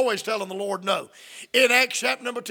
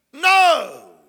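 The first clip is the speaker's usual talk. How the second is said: blunt no; 4 semitones higher, 7 dB louder than usual. Acted. Peter refusing again.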